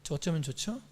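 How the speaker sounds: soft, low, humble praying voice; demonstrated prayer. Shown as a demonstration. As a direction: model a hushed confession of doubt. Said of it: "주님께 기도하세요".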